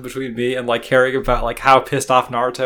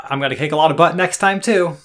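Naruto sign-off; 4 semitones higher, 5 dB louder than usual. Retold or imitated. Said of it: "signs off with".

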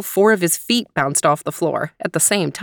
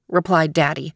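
ordinary delivery, nothing marked

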